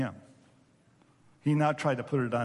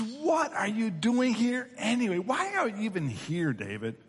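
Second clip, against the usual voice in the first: a touch of angry scolding, acted; irritated challenge, dropping on the name; angry older brother; 5 semitones higher than usual. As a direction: scold a younger brother with mild mock anger. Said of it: "the anger in his brother's voice".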